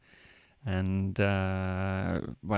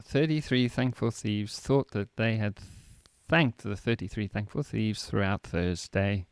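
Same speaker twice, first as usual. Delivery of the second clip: slow careful practice; slower than usual. Shown as a demonstration. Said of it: "Now say that in one".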